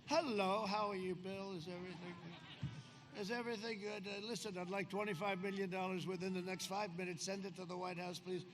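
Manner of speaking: soft, breezy mock call to a bank boss; pretend phone call. President pretending to phone the Goldman boss, quiet and breezy. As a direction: play it as a casual phone request for money. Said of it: "This is the president of the United States calling for the head of Goldman Sachs".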